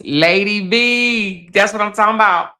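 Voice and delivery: slow, high shout-out; calling out a viewer. Real, not acted. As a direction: hail her by name, drawn out.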